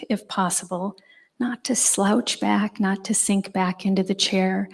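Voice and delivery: guided meditation. Acted. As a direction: ease the room into stillness. Leads seated meditation instructions.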